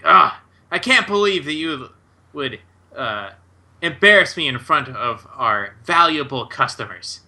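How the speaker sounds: understated scolding, halting midway; a touch of exasperated anger; mildly irate. Acted. Boss berating wizard before valuable customers, mildly irate.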